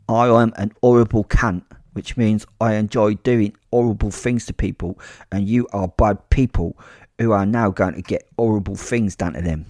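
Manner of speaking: dropped-H Cockney villain quote; Cockney accent. Acted. Fighter quoting Bricktop to frightened boys, Cockney accent. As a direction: put on an emphatic Cockney gangster voice. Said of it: "in a Cockney accent".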